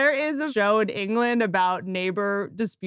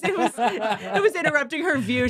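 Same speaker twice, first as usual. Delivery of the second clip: words broken by laughter; laughing. Real, not acted. Joking about the tree-cutter's motive to a co-host, laughing. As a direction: keep the joke going through chuckles. Continuing the joke amid laughter.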